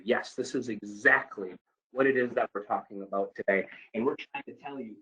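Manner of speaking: calm reassuring explanation to a caller; rounded out tone. Shown as a demonstration. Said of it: "it's a rounded out statement".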